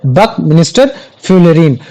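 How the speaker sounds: बकमिनिस्टर फ्लोरीन said slowly, ending in फ्लोरीन; teacher models बकमिनिस्टर फ्लोरीन slowly; careful pronunciation. Shown as a demonstration. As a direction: say बकमिनिस्टर फ्लोरीन deliberately, as the accepted form. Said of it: "फ्लोरीन भी बोल दोगे तो भी कोई दिक्कत नहीं है".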